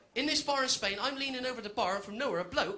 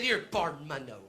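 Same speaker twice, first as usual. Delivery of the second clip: mock Spanglish; 3 semitones lower than usual. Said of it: "I said".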